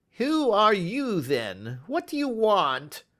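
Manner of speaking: high, slow, frightened voice; quavering. Acted. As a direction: ask it startled and afraid. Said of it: "he asked in a quavering voice".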